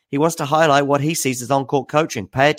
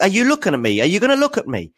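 high-pitched mock rant at the umpire; imitating Medvedev; 10 semitones higher, faster than usual. Player ranting at umpire, high mock rant. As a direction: jab the questions up high like an irate player. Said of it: "And he's like".

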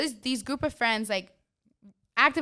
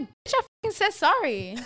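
higher-pitched mock snap at a rude stranger; mock angry snap; 8 semitones higher than usual. Retelling a clash with a stranger at the pier, mock angry snap. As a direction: act out telling off the woman who ignored the apology. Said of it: "I was like".

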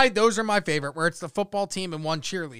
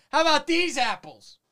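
high-pitched yelled movie catchphrase; mock Boston yell; 9 semitones higher than usual. Host quoting Boston movie to friends, mock yell. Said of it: "I should just start yelling that".

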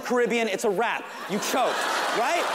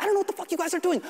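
exasperated stagehand; 9 semitones higher, much faster than usual. Retold or imitated. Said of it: "The prompter guy's like".

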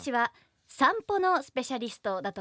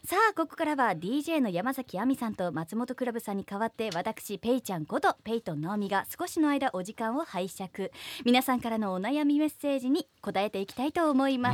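radio DJ voice. Acted. Hosts her own radio corner.

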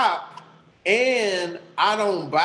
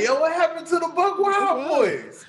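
mock astonished cry; 9 semitones higher than usual. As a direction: call it out high in comic dismay. Acting out astonishment at lost accent.

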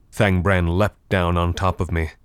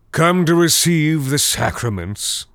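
high mocking undead gurgle; gurgling swamp creature; 8 semitones higher than usual. A narrator's reading. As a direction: taunt with a wet gurgle. Draugr keeps his gurgling voice.

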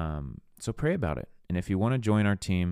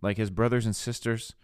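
imitating affronted townsfolk, higher on the key questions; offended disbelief; 3 semitones higher than usual. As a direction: scoff in disbelief at the local carpenter. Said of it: "they're offended".

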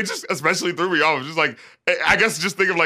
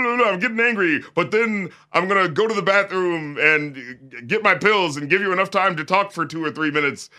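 higher, hammed-up jealous husband parody; mocking jealous husband; 4 semitones higher than usual. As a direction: send up the husband's silly rant. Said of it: "it's such a contrived, awkward scene".

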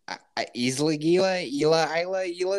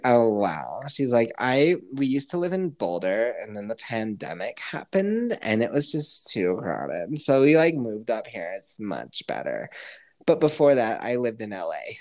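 mock valley girl; 4 semitones lower than usual. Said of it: "she just talks like this".

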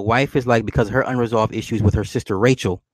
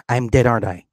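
matter-of-fact child, imitated; deadpan; faster than usual. Daughter asks her dad about her death, deadpan. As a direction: ask it with no emotion at all. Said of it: "she deadpan asked him".

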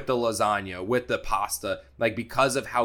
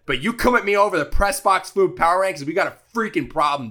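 worked-up rant; 9 semitones higher, 7 dB louder than usual. Real, not acted. Ranting about critics of his rankings.

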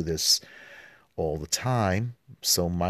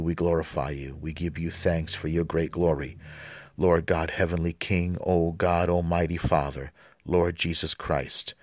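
liturgical prayer recitation. Acted. Priest reciting the Gloria to the congregation, reverent and measured. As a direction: pray it steadily, like leading a congregation.

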